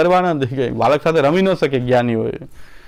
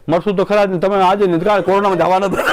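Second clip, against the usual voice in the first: blunt retort; 4 semitones higher, faster than usual. Retold or imitated. Mocking tactless comfort.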